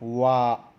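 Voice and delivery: वा drawn out slowly, a clear w-like व; slow consonant demo. Shown as a demonstration. Teacher drawing out वा for the one in one rupee. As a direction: stretch वा slowly to show the sound. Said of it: "वा का sound निकल रहा है".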